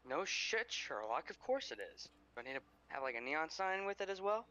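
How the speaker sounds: mock him with scorn; sarcastic retort. Brash retort to stranger.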